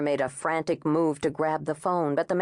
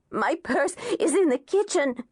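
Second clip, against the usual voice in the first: higher, breathless and terrified; panting; 8 semitones higher than usual. A narrator's reading. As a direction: gasp it out in fear. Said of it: "she panted".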